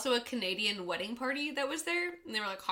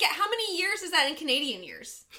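laughing mock insistence; 6 semitones higher than usual. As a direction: push the joke question while cracking up. Retold friend insisting, laughing.

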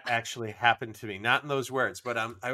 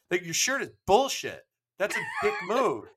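mock offended stranger; 7 semitones higher than usual. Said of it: "He goes".

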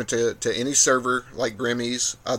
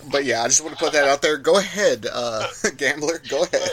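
after laughing hard; 3 semitones higher than usual. Real, not acted. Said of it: "I'm crying laughing right now".

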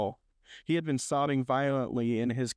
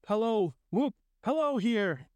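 high, gleeful calling; joyful whooping; 9 semitones higher than usual. A narrator's reading. Scrooge hailing the world like a baby, joyful whoop. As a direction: whoop and holler hello, pitched up high.

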